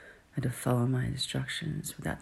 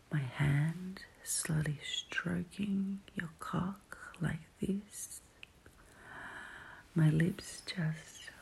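right in ear; 3 semitones higher than usual. Acted. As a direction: close to one ear. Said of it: "My voice in your ear like this".

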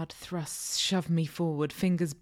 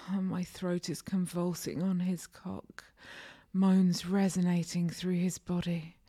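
whispered narration. A narrator's reading. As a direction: whisper it close to the mic.

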